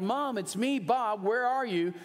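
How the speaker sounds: high, urgent call for mom; retold yell. Son calling to his silent mother, a mild mock yell. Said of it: "And I yelled".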